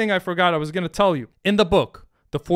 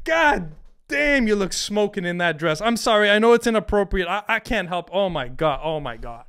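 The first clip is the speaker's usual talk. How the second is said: excited James; 3 semitones higher than usual. Retold or imitated. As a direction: blurt it out, smitten. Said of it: "Or James".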